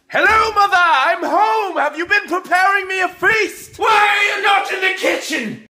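entitled shouting. Acted. Son demanding food from mother.

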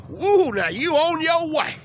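loud, high cheer as it drives off; excited whoop. Real, not acted. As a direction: whoop him down the road. Cheering the truck pulling away.

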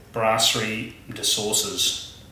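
slow French-accented name; mock French accent on the name. Shown as a demonstration. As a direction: say it the French way, drawn out. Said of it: "my French accent coming out there".

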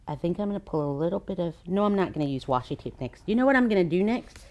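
fast, jittery chatter; too much caffeine. Real, not acted. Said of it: "the coffee is really kicking in".

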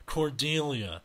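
unhurried, disinterested greeting; calm, indifferent acknowledgement; calm and bored. Acted. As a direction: say the name as if mildly bored. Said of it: "a tone that sounds calm and bored".

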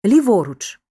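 "ліворuч" stressed on во; stress on middle syllable. Shown as a demonstration. Teacher demonstrating compound adverbs, stress on middle ВО. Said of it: "часто наголошують середні склади".

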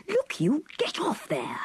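high, sharp snap at the keeper; angry shout. A narrator's reading. Clifford furious at Mellors pushing, shouting. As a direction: bark him off the chair. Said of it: "yellow with anger".

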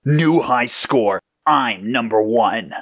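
slow, savoured boast; celebrating. Acted. Red claiming first place, slow and celebrating. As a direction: stretch out each word of the victory.

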